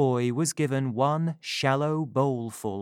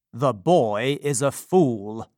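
slow, dismissive gentleman voice; looking down on the boy; scornful gentleman; 5 dB louder, slower than usual. Acted.

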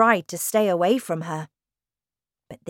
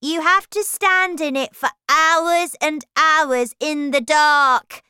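much higher, slow, spooky telling; older children scaring; 9 semitones higher, 9 dB louder than usual. A narrator's reading. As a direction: frighten the little ones with the tale. Children's scary tale.

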